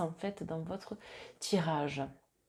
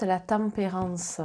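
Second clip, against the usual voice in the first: Marseille accent, « tempérance » said as tam-pé-rance; southern Marseille accent, « tempérance » with an open tam and no nasal; slower than usual. Real, not acted. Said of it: "avec mon accent marseillais".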